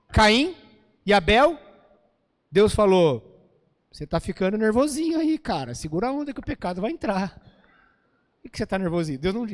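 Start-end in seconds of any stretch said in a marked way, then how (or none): 3.9-9.2 soft, playfully casual imitation of God's warning; casual mock paraphrase. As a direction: toss it off as a jokey street-talk version. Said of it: "Deus não falou assim". (imitação informal e brincalhona)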